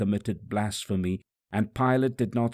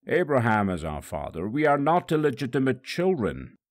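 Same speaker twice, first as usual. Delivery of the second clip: stubborn reply; 3 semitones higher, 3 dB louder than usual. Acted. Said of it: "They stubbornly replied".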